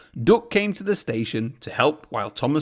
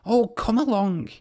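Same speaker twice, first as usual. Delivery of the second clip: impatient puff; 7 semitones higher than usual. A narrator's reading. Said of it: "he puffed impatiently".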